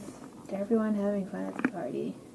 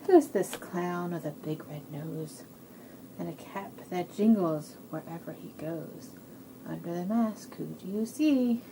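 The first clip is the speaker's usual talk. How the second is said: measured picture-book riddle; reading to children; 3 semitones lower, slower than usual. A narrator's reading. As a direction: lead little listeners into a guess. Reads guessing rhyme to children.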